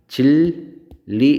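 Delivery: 진리 as jil-li, drawn out slowly; liquidized pronunciation. Shown as a demonstration. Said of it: "이렇게 부르니까".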